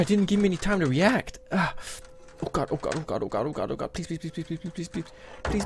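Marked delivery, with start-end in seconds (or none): 2.4-5.6 terrified gibbering. Pretend. Gibbering as danger nears.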